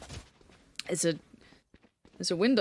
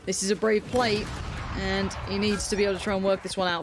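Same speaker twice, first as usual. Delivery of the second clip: esports caster; 3 semitones higher than usual. Acted. Live play-by-play of a round.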